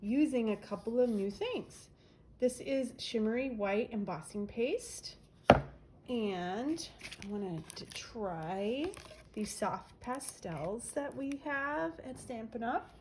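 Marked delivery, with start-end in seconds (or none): 2.4-12.9 nasal voice. Real, not acted. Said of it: "I have very nasal, nasal sounding voice".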